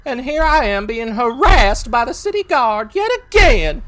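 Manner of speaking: 1 indignant protest. Acted. Character protests to city guard.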